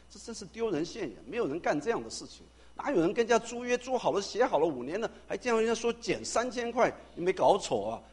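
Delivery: loud, high, scandalised scolding; a friend aghast at an embarrassing letter, scolding loud and high; scolding disbelief. Retold or imitated. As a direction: tell him off like he's lost his mind. Friend scolds pastor over letter.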